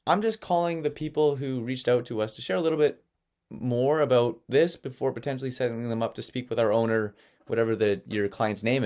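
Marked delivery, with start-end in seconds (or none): 0.1-7.2 innocent assistant. Shown as a demonstration. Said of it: "the innocent assistant behind the desk".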